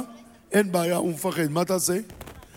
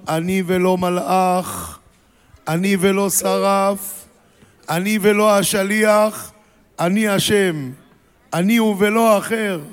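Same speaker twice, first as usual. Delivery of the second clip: slow, each ולא weighted and falling; solemn divine declaration; slower than usual. Acted. God's solemn declaration, quoted. (הכרזה איטית וחגיגית)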